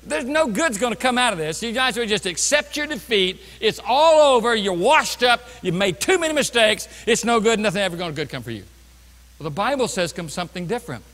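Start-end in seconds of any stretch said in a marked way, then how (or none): 0.0-8.6 a light sneering accuser voice; lightly mock the devil's taunts; voicing the accuser. Preacher voicing Satan's taunts to the congregation, lightly mocking. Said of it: "When he comes in and says".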